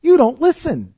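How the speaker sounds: loud, high "You don't listen."; loud taunt. Shown as a demonstration. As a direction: snap "You don't listen." back hard. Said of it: "Notice it just changes here".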